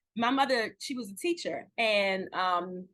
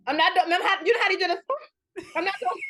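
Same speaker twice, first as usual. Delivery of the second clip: holding back tears; 6 semitones higher, 5 dB louder, much faster than usual. Real, not acted.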